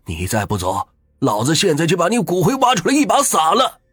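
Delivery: put-on old man bellowing at ghosts to protect his wife; roaring, high-pitched tirade of rage; furious shout. A narrator's reading. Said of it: "对着空气大声地骂道".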